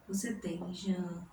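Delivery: Jana-i-na, each syllable separated; syllables split apart. Shown as a demonstration. Teacher spelling out Jana-i-na for the class. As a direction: say Jana-i-na with a break before the i. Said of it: "na palavra Janaína".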